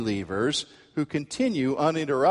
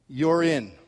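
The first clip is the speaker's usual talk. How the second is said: stranger's verdict; 4 semitones higher, 3 dB louder than usual. Retold or imitated. Stranger tells passengers in or out.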